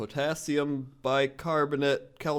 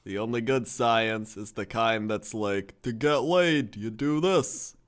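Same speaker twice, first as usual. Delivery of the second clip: quoting a friend; 3 dB louder, slower than usual. Retold or imitated. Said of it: "Jesse Cox, twenty twelve".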